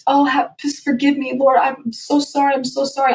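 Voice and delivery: begging God for mercy, lightly voiced; retold crying prayer. Singer retelling breakdown to host, mild tearful pleading.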